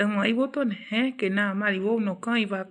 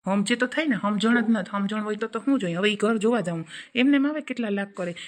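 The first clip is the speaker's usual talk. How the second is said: loud, heated telling-off; angry scolding; 4 dB louder than usual. Acted. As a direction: lay into her, voice raised. Angry husband-wife quarrel. (ગુસ્સામાં ઊંચા અવાજે ઠપકો)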